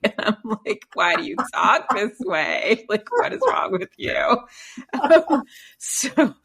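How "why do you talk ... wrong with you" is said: exasperated. Retold or imitated. Exasperated mother mocking kids' California talk.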